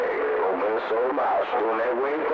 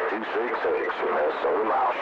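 'Two six six, Minnesota Mouse' said much lower than normal; 6 semitones lower than usual. Shown as a demonstration. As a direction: drop the voice way down for the call sign. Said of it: "You know I'm doing way low".

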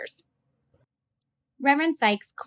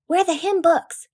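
whisper; 8 semitones higher than usual. A narrator's reading. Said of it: "I whispered".

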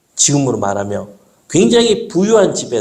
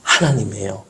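put-on child's answer; 6 semitones lower, 4 dB quieter than usual. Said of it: "다혜가 뭐라 하는지 아세요?".

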